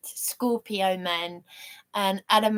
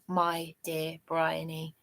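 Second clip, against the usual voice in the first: heartfelt; 2 semitones lower, 7 dB quieter, slower than usual. Retold or imitated. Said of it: "as if I belong to him".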